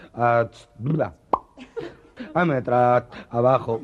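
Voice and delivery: loud, slow stutterer fighting through each syllable. Acted. Stutterer bragging to the boss, stammering loudly. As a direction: push and stall on every word.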